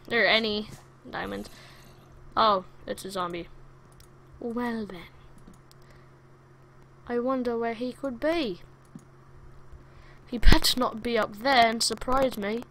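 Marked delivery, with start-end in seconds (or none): 4.4-12.6 mock British accent. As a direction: put on a not-quite-British accent. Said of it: "talking in a British accent".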